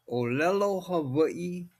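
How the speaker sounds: o-LE-lo ha-VAI-i, each vowel pure; Hawaiian word. Shown as a demonstration. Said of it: "or Hawaiian language".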